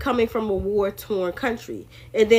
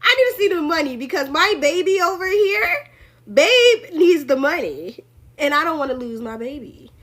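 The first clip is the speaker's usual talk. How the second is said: higher, hammed-up needy Trump; mock Trump; 5 semitones higher than usual. Mock Trump rushing to the treasury for his baby, hammed-up and higher. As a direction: play Trump as a fretting sugar daddy, pitched up. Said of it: "Trump said".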